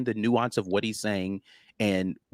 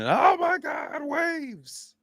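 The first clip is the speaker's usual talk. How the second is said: high, slow mock-panicked shriek; mock panic, much higher, drawn out; much slower than usual. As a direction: ham up a frightened fan. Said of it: "if you wanna freak out".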